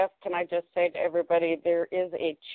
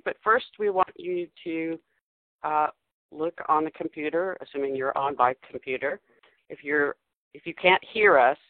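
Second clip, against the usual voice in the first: over the top. Acted. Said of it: "you sound so, um, over the top there".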